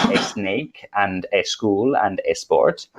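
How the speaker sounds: "a snake", "a school", "a sport" with an E before each S; Spanish-learner E before S. Shown as a demonstration. Teacher imitating Spanish learners' English, extra E before each S. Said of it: "always have an E before the S".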